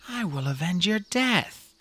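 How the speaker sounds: slow, solemn, gentle promise; soft promise. A narrator's reading. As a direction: vow it softly over the fallen. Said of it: "he promised softly".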